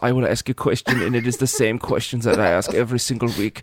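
put-on measured German-accented host voice; Werner Herzog. Host imagines a weird show intro, mock German accent. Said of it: "channeling Werner Herzog".

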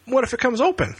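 put-on high scared kid voice; nervous young guy. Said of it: "Freddy says".

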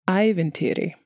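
spoken normally at natural speed; Icelandic word. Shown as a demonstration. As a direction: say ævintýri clearly at normal pace. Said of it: "I'll say it slower".

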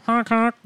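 high nasal honking noise. Retold or imitated. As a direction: honk like a goofy goose. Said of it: "He does, like, a noise".

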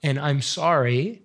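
quiet, choked-up confession; fighting back real tears; soft, teary apology; tearful. Real, not acted. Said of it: "see those tears?".

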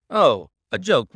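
loud scornful echo of a joke; scornful anger. A narrator's reading. Lestrade scorning Oldacre's excuse, loud and scornful. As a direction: sneer the word back at him. Angry detective mocks the excuse.

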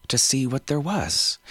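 put-on high, bubbling young girl voice; a thrilled child showing off; excited little girl. Girl character answering.

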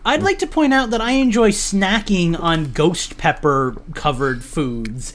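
speaking through a numbed mouth; numb tongue. Real, not acted. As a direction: lips and tongue half numb. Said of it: "I find this disgusting".

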